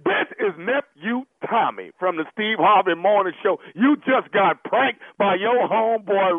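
emphatic radio host announcement, drawn out at the end; prank reveal. Real, not acted. Host revealing the prank to his victim, emphatic announcement. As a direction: announce it triumphantly, slowing on the punchline.

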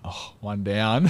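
drawn-out, slow retold reaction; slow realisation. Player retells hearing a teammate is out, slow realisation. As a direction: let it out slowly, as a private tally.

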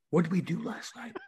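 lightly acted dread; mock panic. Player to buddy, fearing arrest, mock panic.

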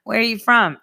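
high, gushing mock excitement; gushing tourists. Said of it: "they're like".

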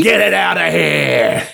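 slow, high mocking Trump; Trump impression. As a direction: lightly imitate Trump dismissing. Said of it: "he kicks a baby out".

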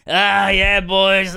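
hint of a mock streamer catchphrase voice; lightly put-on streamer drawn from memory; Ludwig. Podcaster teasing a fellow streamer with his catchphrase, light mimicry. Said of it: "Ludwig has always said".

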